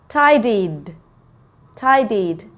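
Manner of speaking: Tidied said twice, carefully, ending in ID; teacher modelling the ID at the end of tidied. Shown as a demonstration. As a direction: repeat tidied with a pause between, ED as ID. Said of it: "Can you hear the difference?".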